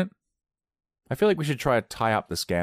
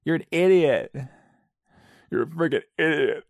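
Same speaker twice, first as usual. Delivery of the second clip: higher-pitched mock berating; mock insult; 7 semitones higher, 3 dB louder than usual. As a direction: act out an exasperated put-down. Acted movie-quote insults, irritated.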